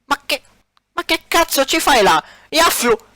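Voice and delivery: high, disbelieving yell; shocked shout. Acted. (urlo incredulo)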